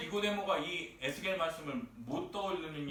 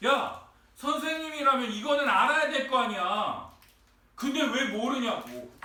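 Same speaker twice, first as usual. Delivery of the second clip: raised, exasperated acted telling-off; scolding; 4 semitones higher, 4 dB louder than usual. Preacher plays Jesus scolding a teacher, exasperated. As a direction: tell them off as a failed teacher. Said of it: "꾸짖고 계신".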